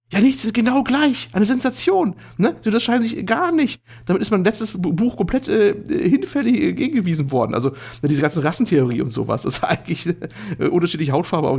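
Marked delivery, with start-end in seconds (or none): 0.1-7.5 very high, thrilled mad scientist; eccentric doctor voice. Acted. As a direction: squeal it out like a giddy doctor. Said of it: "Wo der Doktor, immer ein bisschen high".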